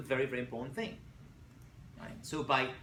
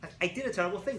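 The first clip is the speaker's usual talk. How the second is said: loud, bright it's-all-okay brush-off; hammed-up fake cheer; mock breezy dismissal; 6 semitones higher, 7 dB louder than usual. Shown as a demonstration. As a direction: brush it off far too cheerfully. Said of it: "you can't just jump from".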